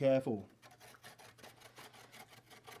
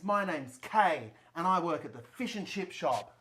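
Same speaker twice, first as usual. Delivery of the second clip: Kay character voice. Acted. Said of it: "guess what my name is in this?".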